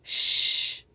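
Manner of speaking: long hissed sh, loud; isolated sound. Shown as a demonstration. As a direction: push out a hissing "Sh" with no voice. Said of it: "Let's spell the sounds".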